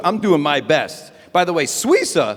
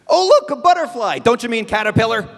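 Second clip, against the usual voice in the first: mock wonder; 5 semitones higher, faster than usual. Imagined quote, high excited.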